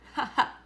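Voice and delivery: a quick amused chuckle; short laugh. A narrator's reading. Child laughing at dad's joke, short chuckle.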